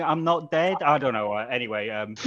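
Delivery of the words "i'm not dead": Stephen Hawking voice. Pretend. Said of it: "Stephen Hawking had jumped into Tim's body".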